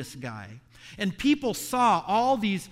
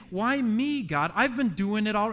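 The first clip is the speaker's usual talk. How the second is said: higher, whiny hurt protest; aggrieved complaint; 4 semitones higher than usual. Retold or imitated. Bitter older brother complaining to God, aggrieved and higher. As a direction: complain to God like the wronged good son. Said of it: "He's saying".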